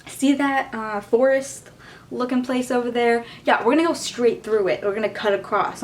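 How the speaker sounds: a hint of a cheerful group leader announcing the plan; imitating the teacher. Teacher announcing a shortcut through the forest, lightly mocking tone. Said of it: "and he's like".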